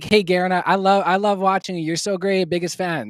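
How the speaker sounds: high, loud, hammed-up fan voice; gushing fan. Mocking fans who praise him then ask things, gushing high fan voice. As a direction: gush like an adoring fan. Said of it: "People are like".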